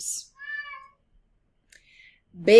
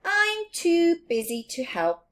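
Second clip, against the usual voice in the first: high squeaky mouse refusal; Little Mouse voice; 11 semitones higher, 4 dB louder than usual. Acted. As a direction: brush off the request, high. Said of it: "said Little Mouse".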